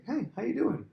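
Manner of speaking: hearty greeting. Acted. Prince hailing a stranger at the gate, hearty greeting. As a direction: call it out high, like a glad-handing prince. Playing Absalom greeting a passerby.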